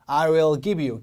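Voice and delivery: "give" slightly stressed in "I will give you"; light stress on GIVE. Shown as a demonstration. Teacher modelling the phrase, light stress on "give". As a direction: lean a little on "give". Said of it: "기부에도 강세가 살짝".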